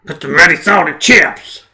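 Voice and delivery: loud, drawn-out mock American accent; exaggerated American twang, slow and loud. Shown as a demonstration. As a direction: belt it out in a hammed-up American accent. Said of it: "how the American would understand".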